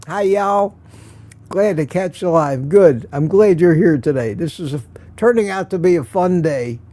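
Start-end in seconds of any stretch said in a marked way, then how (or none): 0.1-2.7 put-on sweet Southern accent. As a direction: read it with a hint of Southern accent. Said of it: "got that sweet Southern accent".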